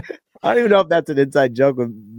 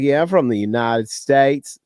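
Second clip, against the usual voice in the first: slow, put-on cowboy twang; full-on cowboy accent. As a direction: play up an American cowboy accent. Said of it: "go, like, full on cowboy".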